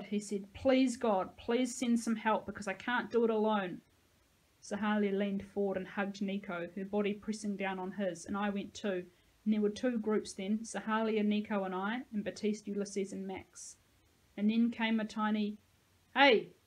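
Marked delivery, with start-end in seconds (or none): 0.5-3.8 mildly pleading prayer; praying. A narrator's reading. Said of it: "Nico started to pray". 16.1-16.5 put-on loud angry hail from an old voice; old but mad. A narrator's reading. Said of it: "but mad".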